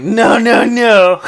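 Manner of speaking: loud high refusal; emphatic no. Retold or imitated. Kid loudly refusing the man, emphatic no. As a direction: shout it, firm kid refusing.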